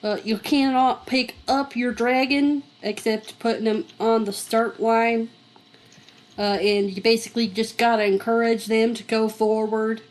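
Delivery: put-on lightly Southern-accented dragon seller. Seller explaining dragon race rules, Southern accent. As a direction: explain it with an unplanned Southern twang. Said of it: "I do not know where this accent is coming from".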